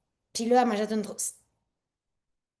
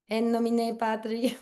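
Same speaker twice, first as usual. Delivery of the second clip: mock priest blessing; slower than usual. Mock blessing over product.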